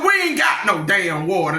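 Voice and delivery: curt refusal. Retold or imitated. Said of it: "slammed the door in their face".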